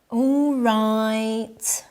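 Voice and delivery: flat, unwilling "All right"; "All right" said flat and grudging, like a chore; reluctant all right. Shown as a demonstration. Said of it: "Intonation can change the meaning".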